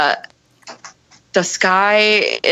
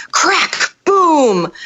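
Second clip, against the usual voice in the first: higher, sudden crack and boom; thunderclap imitation; 6 semitones higher than usual. Narrator mimicking the storm overhead, dramatic thunderclap. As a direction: hit it like a lightning strike.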